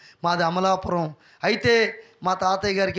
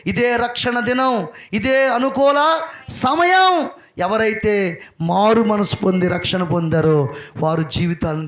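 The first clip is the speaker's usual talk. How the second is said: full-force preaching; 4 dB louder than usual. Real, not acted. Preacher urging congregation to dare for God, full-force preaching. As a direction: preach it forcefully, stretching the key phrases.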